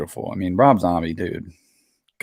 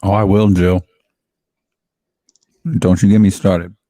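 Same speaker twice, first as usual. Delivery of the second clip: loud declaration; 9 dB louder than usual. Retold or imitated. Loud quoted line.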